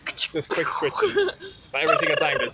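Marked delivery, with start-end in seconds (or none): 0.0-1.3 very high, slow squeaky voice; helium voice. Pretend. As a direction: talk like you sucked helium. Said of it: "Negev on helium, obviously".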